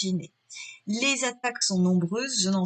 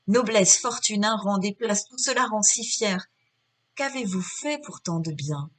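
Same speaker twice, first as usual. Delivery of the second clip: dramatic reading. Acted. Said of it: "je le mets en voix".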